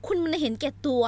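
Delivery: falling, loud accusation; accusing. Acted. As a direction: spit out คุณมันเห็นแก่ตัว with a drop. Heroine accuses.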